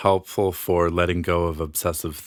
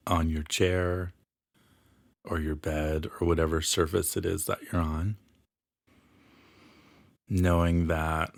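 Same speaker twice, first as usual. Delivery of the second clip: guided meditation; 3 dB quieter than usual. Acted. Healer leads listeners into an imagined library, guided meditation. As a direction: ease the listener into relaxation, phrase by phrase.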